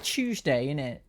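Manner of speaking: a hammed-up bad British accent. Gamer joking with her partner in a bad British accent. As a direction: toss it off in a jokey fake British accent. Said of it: "I like doing a bad British accent".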